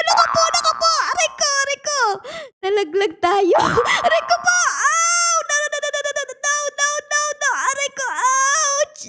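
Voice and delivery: panicked falling yelps; frantic no no no; hit hard crying out. Real, not acted. Falling down the stairs.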